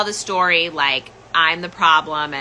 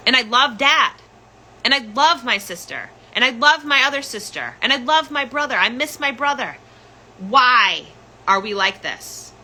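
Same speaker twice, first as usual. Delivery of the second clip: higher, pleading voice; 5 semitones higher than usual. Retold or imitated. Daughter to mother on the phone, pleading higher. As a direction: beg her to see it. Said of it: "I was like".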